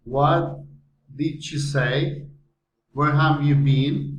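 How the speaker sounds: "say" and "been" lifted at the end; rising intonation. Shown as a demonstration. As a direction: ask "What did she say" and "Where have you been" with rising endings. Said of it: "rising intonation".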